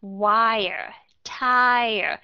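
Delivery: Wire and tire whispered, vowel kept clear; whispered model words. Shown as a demonstration. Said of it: "đọc âm I rất là rõ ràng".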